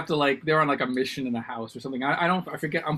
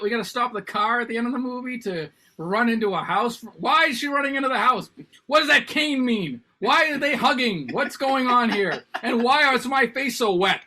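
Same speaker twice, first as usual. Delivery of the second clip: higher and louder, hammed-up tearful questions; mock teary wailing; 8 semitones higher, 4 dB louder than usual. Husband retelling how he weeps at his wife's favorite film, mock teary wail. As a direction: overplay a grown man weeping at the movie, half laughing. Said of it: "That, that's how I cry about it".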